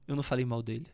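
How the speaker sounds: low, mild, knowing take; low sly denial. Shown as a demonstration. Coach showing a low-pitched version of the same words. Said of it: "São as mesmas palavras".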